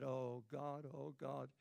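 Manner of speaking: low, soft, feeble moan; sick groaning. Retold or imitated. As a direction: imitate a weak prayer from the sickbed. Sick in bed, retold groaning.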